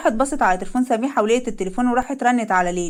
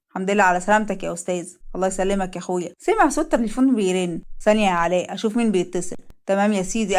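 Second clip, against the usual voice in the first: lightly lowered male voices; two colleagues greeting, voiced lower; men at work; 3 semitones lower than usual. Leil and Alaa chat at office.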